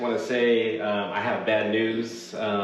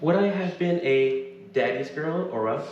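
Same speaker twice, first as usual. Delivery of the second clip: story narration; 3 semitones higher than usual. A narrator's reading.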